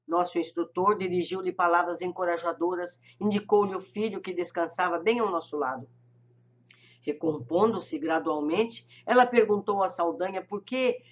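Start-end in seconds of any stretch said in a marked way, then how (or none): none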